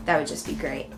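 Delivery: normal talking voice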